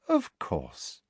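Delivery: soft, sugary and quiet; sickly-sweet politeness; sweetly. Acted. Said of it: "she said sweetly".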